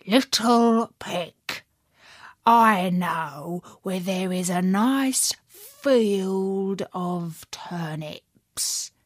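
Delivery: slow, sly coaxing wolf. Acted. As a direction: tempt the pig slyly. Wolf tempts the pig.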